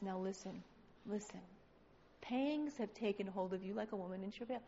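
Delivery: low, soft and measured; patient counsel. Acted. God telling the struggling believer to listen, patient and soft.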